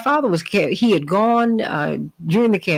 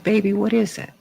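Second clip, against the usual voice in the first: gentle coaxing; 4 semitones higher than usual. Retold or imitated. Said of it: "very gently and gingerly approached him".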